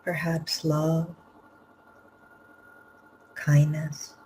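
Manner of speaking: unhurried phrases with long pauses between; guided meditation. Real, not acted. Teacher leading students to empty the cup of the heart, guided meditation. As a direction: guide them gently inward, leaving room to breathe.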